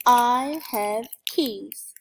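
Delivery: I have keys, each word slow and loud; sounding out words. Shown as a demonstration. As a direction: spell it out slowly, word by word. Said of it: "sounded out".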